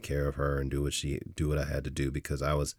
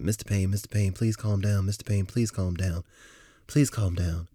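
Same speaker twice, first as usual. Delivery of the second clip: pleading counselor; 5 semitones higher than usual. Retold or imitated. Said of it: "her pleading with me to calm down".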